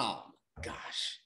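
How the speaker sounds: breathy, hushed and slow; whispered oh my gosh. Retold or imitated. Looking at his bank account, a hushed whispered oh my gosh. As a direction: gasp it out under the breath.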